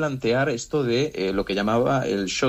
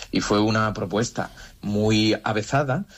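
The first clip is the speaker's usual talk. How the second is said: ordinary talk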